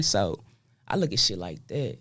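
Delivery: rough just-woke-up voice; froggy morning voice. Real, not acted. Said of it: "I got my morning voice on too".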